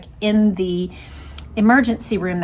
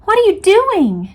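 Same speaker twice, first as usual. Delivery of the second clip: higher, louder outraged challenge; indignant demand; 10 semitones higher, 6 dB louder than usual. A narrator's reading. Jean confronts the agent grabbing her photos, indignant. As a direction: demand an answer, furious. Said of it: "Jean demanded".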